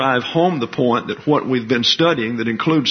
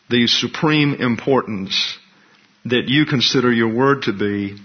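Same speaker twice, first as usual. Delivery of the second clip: measured, reverent prayer voice. Acted. Pastor praying for the class before the study, reverent.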